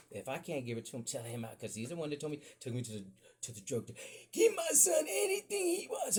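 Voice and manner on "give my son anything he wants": high, loud, slow put-on dad voice; dad's voice. Dad ordering the drug dealer to spoil his son, high and loud. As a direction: boom it out like a proud big-shot dad.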